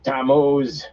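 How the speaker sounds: high spat name, like a curse; a woman cursing a man's name. A narrator's reading. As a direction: curse him with his name. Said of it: "as if it were a curse".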